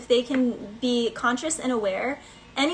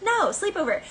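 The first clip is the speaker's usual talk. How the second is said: put-on insistent kid; 7 semitones higher than usual. Child insisting in story.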